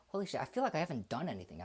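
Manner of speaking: breathless, rushing the words; panting between words; out of breath. Real, not acted. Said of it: "I'm still out of breath".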